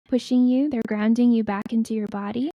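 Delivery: unhurried, measured channelling voice; guided meditation. Acted. Healer passing on the ancestors' blessing to listeners, guided meditation. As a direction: let each phrase settle before the next.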